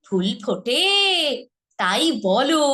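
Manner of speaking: ফুল ফোটে তাই বলো with a lively, rising lilt; animated recitation; dramatic line. Shown as a demonstration. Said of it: "এটা কিন্তু এভাবে বলেন".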